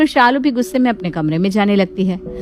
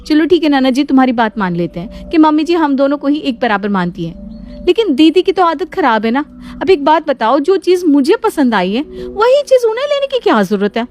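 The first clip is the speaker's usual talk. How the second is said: indignant grumbling; 4 semitones higher than usual. Acted. Shalu rants about her sister-in-law.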